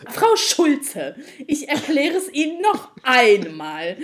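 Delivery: mock him, drawn out and smug; patronising agent. Frau Schulze mimics the smug support agent, slow and patronising. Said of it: "Wirklich genau so".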